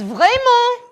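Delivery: "vraiment" with a loud throaty R, said twice; passionate French. Shown as a demonstration. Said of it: "which means very".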